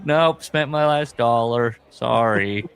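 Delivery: slow, offhand mock refusal; put-on husband brushing off a plea; unapologetic fan. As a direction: refuse as the careless fan, drawing it out. Voices the fan refusing spouse.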